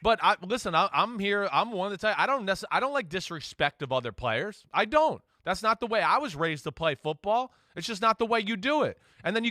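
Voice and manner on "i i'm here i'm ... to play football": ordinary talk, nothing marked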